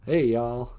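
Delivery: drawn-out Southern drawl; Southern accent. Shown as a demonstration. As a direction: stretch it out like a Southerner. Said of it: "You say the Southern accent".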